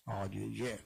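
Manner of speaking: "A J J" said with low, grave vowels; low Yoruba sounds. Shown as a demonstration. Teacher repeating "A J J" to show the grave tones. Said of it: "Porque ele é todo com grave".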